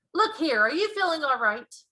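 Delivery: high, loud worried question; a king doubting the Queen's sanity; loud, alarmed royal; incredulous king. A narrator's reading.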